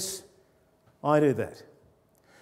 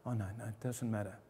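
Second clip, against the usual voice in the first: brushing it off; 5 semitones lower, 12 dB quieter, faster than usual. Retold or imitated. Person brushing off hurt.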